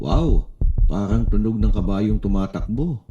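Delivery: put-on loud, amazed child's wow. Mark hears his own heartbeat, loud and amazed. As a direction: burst out in wonder.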